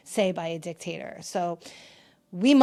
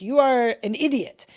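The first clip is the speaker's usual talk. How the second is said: a higher, louder put-on voice for a blunt online critic; mock snarky commenter; 4 semitones higher, 5 dB louder than usual. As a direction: toss it off like a rude Russian commenter. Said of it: "Russian Talk will be like".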